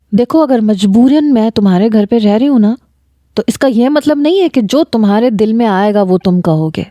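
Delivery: usual speaking voice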